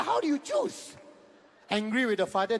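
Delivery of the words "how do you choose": incredulous question. Retold or imitated. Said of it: "I said".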